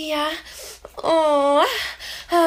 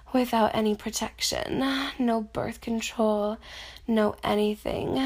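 soft afterglow; 3 semitones lower, 5 dB quieter than usual. Acted.

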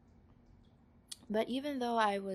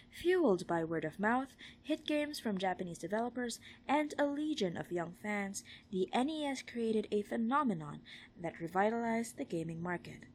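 clear, animated documentary-style read; reading aloud; 2 semitones higher than usual. Acted. Reading a game console book passage, clear read-aloud voice. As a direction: read it out with lifted key words.

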